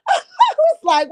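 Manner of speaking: high laugh breaking into words; cracking up mid-sentence. Real, not acted. Laughing while retelling her reaction.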